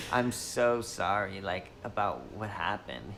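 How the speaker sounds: a lightly voiced earnest activist girl, stretched out; social justice warrior girl. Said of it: "the voice of the social justice warrior girl".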